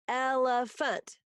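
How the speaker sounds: "elephant" slowly split into its syllables. Shown as a demonstration. Teacher counting syllables for pupils, "elephant" syllable by syllable. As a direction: sound out "elephant" in three slow beats. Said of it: "three syllables".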